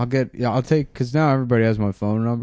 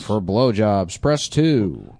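phone menu voice; much slower than usual. Pretend. Mock automated phone menu.

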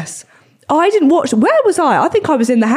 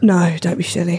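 Sean Connery voice; 3 semitones lower than usual. Pretend. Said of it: "Okay, Sean Connery".

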